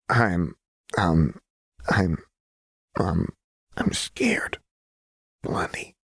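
halting, frightened whisper; ghostly whisper. A narrator's reading. Jinx admitting fear to Lux, ghostly whisper. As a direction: whisper it haltingly, barely voiced. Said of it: "Jinx's voice was a ghostly whisper".

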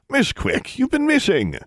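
high, strange voice of the hanging warlock; very high uncanny greeting; eerie warlock voice. Acted. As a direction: sound like an enchanted figure calling down. Talking warlock statue greets her.

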